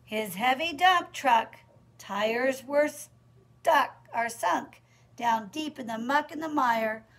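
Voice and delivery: measured storytime narration with pauses; rhythmic read-aloud; picture-book reading. Acted. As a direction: read the rhyme to small children.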